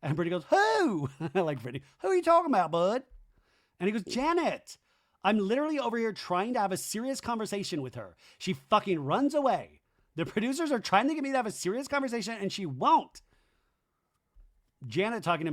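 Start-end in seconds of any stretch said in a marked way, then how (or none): 0.5-3.0 very high, louder bewildered squeak; mock Brittany. Brittany asking Zach who he means, high squeak. Imitating Brittany's shrill confusion. 4.0-13.2 high, whiny exasperated rant; mock frustrated Zach. Zach ranting to Brittany about Janet, whiny.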